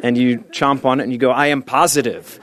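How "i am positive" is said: rising, energetic commercial chant; raw enthusiasm. Pretend. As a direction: pump each word higher and brighter. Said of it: "Raw Enthusiasm".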